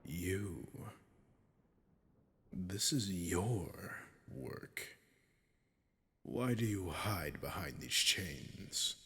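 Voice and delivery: slow, hissed whisper to the captive; a slow, intimate threatening whisper; menacing whisper. Acted. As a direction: lean in and whisper the accusation. Dragon recognizes artisan captive.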